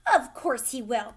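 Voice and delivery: loud shriek. A narrator's reading. Mother shrieking back at Wonka, loud. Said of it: "shrieked Missus Gloop".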